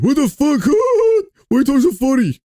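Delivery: high mock panic at a strange accent; mock bewildered host. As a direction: squeal it like a baffled tourist. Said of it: "he probably's like".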